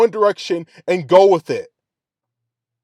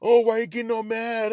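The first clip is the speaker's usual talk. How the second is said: mock whiny critic voice, quieter; a hint of a nagging fan; 4 semitones higher, 6 dB quieter than usual. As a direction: lightly sneer out the critics' line. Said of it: "I'm sure people will be like".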